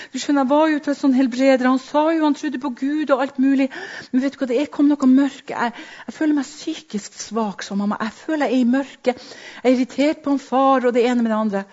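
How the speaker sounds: voicing mother. Mother's voice in retold story.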